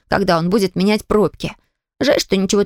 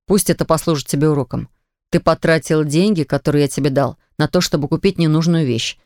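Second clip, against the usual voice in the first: lecturing father; 6 semitones lower than usual. A narrator's reading.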